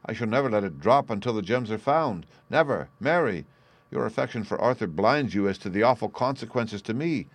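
mildly heated, emphatic insistence; firm refusal. Acted. Banker refusing his niece's plea, firmly insistent. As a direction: stand your ground with some force.

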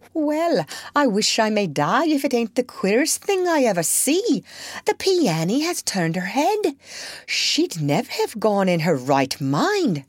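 high amazed country servant; astonished cry. Acted. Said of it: "cried Hannah".

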